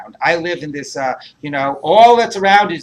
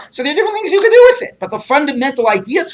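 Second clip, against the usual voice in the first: laughing; 9 semitones higher, 3 dB louder, faster than usual. Real, not acted. Lecturer laughs mid-explanation.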